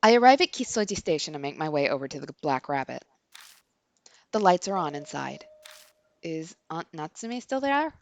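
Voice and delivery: composed, measured inner monologue; story narration. A narrator's reading. Reads the game's narration aloud.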